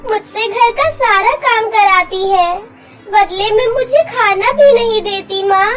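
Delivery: put-on a little girl pouring out her hurt; complaining girl. Girl tells her real mother about the stepmother, childlike and hurt.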